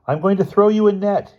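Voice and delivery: loud, high call. A narrator's reading. Bruno calling up to the boy in the basket, loud high call. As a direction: shout the plan up to the basket. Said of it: "he called to the boy".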